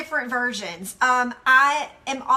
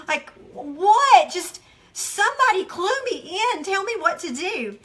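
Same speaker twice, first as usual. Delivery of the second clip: pleading exasperation; 5 semitones higher than usual. Retold or imitated. Voicing the lost listener, exasperated plea. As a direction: beg somebody to clue you in.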